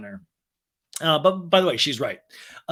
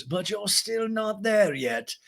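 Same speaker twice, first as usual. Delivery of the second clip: high, soft, slow posh voice; breathy grande dame advice; Lisa impression; 6 semitones higher, 4 dB quieter, much slower than usual. Lisa advises Allie in interview, high soft posh voice.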